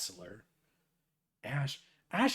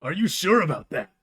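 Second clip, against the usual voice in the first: John Cena meme; 4 semitones higher, 9 dB louder than usual. Acted. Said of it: "I need more John Cena".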